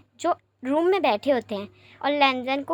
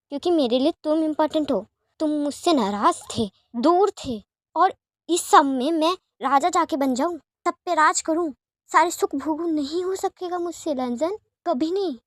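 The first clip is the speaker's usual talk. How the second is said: passionate plea; 3 semitones higher than usual. Acted. Wing pleads his love, refusing throne.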